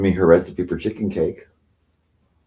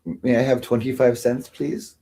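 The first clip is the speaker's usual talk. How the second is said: meek request; 3 semitones higher, 4 dB quieter than usual. Retold or imitated. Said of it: "when I'm like".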